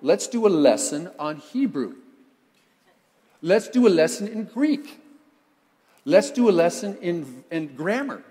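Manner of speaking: loud, emphatic mock teacher; hammed-up loud lesson pitch; mock lecturer. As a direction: announce each lesson loudly, slowing down. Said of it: "You know what he didn't say?".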